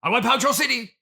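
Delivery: villain catchphrase. Acted. Actor plugging his film does the villain's threat. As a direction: growl out the villain's threat with relish.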